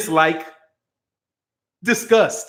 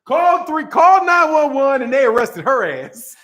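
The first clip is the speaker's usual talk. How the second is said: excited retelling; 5 semitones higher than usual. Real, not acted.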